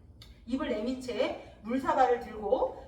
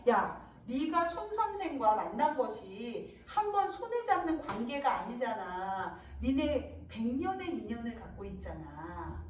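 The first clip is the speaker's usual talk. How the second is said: slow, drawn-out sentence endings; amused teasing; 2 semitones lower, 3 dB quieter than usual. Acted. So Unseong taunting the concubine about her bond, amused teasing. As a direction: needle gently, stretching the last syllables. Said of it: "소은성이 하는 말이 웃으면서".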